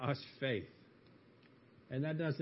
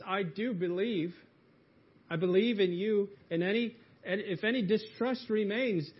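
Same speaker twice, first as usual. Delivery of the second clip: higher, earnest confession poured out; impassioned plea; 4 semitones higher than usual. Acted. Father confessing his doubt to Jesus, impassioned and higher. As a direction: pour out the struggle, higher and pressing. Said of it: "It's as if he's saying".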